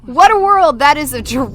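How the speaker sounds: high, loud witch wail; Wizard of Oz witch. Retold or imitated. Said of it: "an exact quote from Wizard of Oz".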